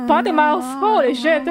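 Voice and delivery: ordinary delivery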